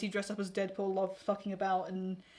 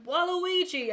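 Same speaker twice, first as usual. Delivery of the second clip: higher-pitched mock call across a room; playful, lightly raised yell; imitated yell; 8 semitones higher, 4 dB louder, slower than usual. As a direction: imitate someone hollering a name. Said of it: "somebody yelling across the room".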